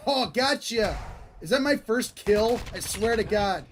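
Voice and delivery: high, loud hype; excited. Real, not acted. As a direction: cheer after the kill. Celebrating first kills.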